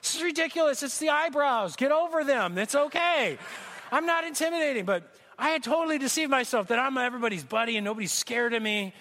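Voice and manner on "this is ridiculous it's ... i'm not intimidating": higher, exasperated denial; indignant self. Retold or imitated. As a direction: brush it off in disbelief. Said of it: "I'm going".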